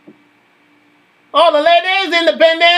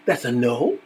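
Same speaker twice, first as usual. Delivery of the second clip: much lower, dry verdict; deep voice; 8 dB quieter than usual. Acted. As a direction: drop way down for the verdict.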